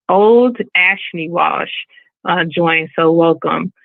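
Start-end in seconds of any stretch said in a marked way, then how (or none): 0.1-1.7 second careful try at a screen name, drawn out; slow name reading. Real, not acted. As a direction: slowly piece the name together. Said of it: "I gotta say it slow".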